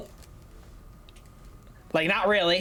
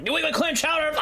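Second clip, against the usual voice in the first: high-pitched silly exclamation; sudden comic cry; random-thought outburst; 9 semitones higher than usual. Acted. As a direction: blurt it out high, like an intrusive thought. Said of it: "the random thoughts like".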